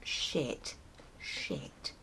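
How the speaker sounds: hushed, breathless curse under the breath; muttered panic at the leaking car; whispered swearing. Retold or imitated. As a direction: whisper it in dismay. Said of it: "and I'm like".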